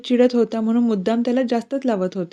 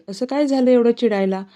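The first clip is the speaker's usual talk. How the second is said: raised, irritated questioning; irritated demand; 3 semitones higher than usual. Acted. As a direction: snap at the girl. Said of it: "Rohini चिडूनच बोलते". (चिडून विचारणे)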